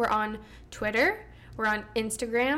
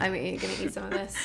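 quick words through a mouthful; mouth full; 3 semitones lower, faster than usual. Real, not acted. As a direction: talk while still chewing. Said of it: "I have cookie in my mouth".

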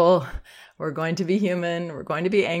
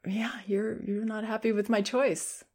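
name the feelings without flinching; calm acknowledging; 5 semitones higher than usual. Shown as a demonstration. Parent to screaming toddler, easy and comfortable. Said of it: "I can say it like that".

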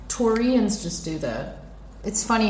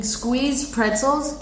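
slow reading; 5 semitones higher, much slower than usual. Shown as a demonstration. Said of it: "what does it say on the packaging".

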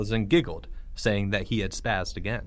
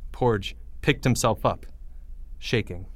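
ordinary delivery, nothing marked

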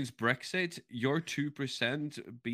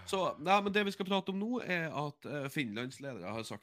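casual Norwegian aside; speaking Norwegian; faster than usual. Shown as a demonstration. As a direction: show off some Norwegian. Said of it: "show off".

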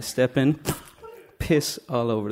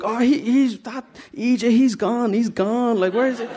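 put-on cover voice; 8 semitones higher than usual. Hiding from kids behind the door, a high bluffing voice.

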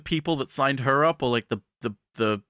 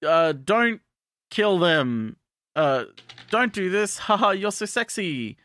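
lightly voiced bandmate, half begging, half flirting; a hint of a goofy pleading bandmate; Chunky Kong pleading; 4 semitones higher, slower than usual. Bandmate begs her not to kill, mock pleading. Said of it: "Chunky Kong ... is like".

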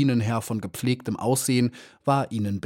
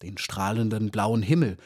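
sanft, zärtlich und langsam beginnend; liebreich. Acted. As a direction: liebevoll wie zu einem Kind sprechen. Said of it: "mit veränderter Stimme und sah Maya liebreich". (alte Lehrerin spricht Maya leicht liebevoll an)

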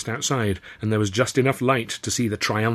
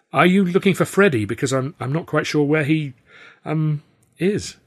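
higher, louder, caught off guard; startled gentleman stammering at the door; flustered surprise; 6 semitones higher, 5 dB louder than usual. Acted. Startled Arthur asking the stranger about Freddy.

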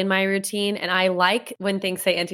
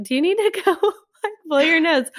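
imitating friend; 11 semitones higher than usual. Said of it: "was like".

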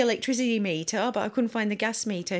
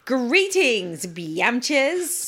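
fake greeting; 4 semitones higher, much slower than usual. Shown as a demonstration. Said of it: "I can do one".

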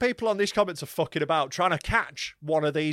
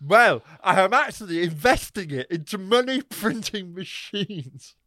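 loud, higher mock-dimwit in a botched accent; thick man's voice; 5 semitones higher, 5 dB louder, slower than usual. Host plays the buyer explaining his investment, dimwit voice. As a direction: play a proud idiot with a failed American accent. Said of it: "he's so thick he can't do the accent".

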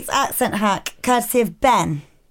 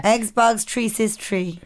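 put-on Nigerian accent; slower than usual. Shown as a demonstration. Host retrying the accent hack, mock Nigerian accent. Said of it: "For, I, for a Nigerian accent".

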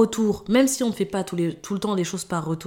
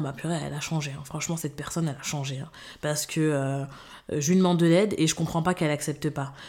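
muttered, softer complaint; a hint of petty indignation; quiet offended gossip; 3 semitones lower, 4 dB quieter than usual. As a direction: mimic them grumbling behind her back. Imitating offended people.

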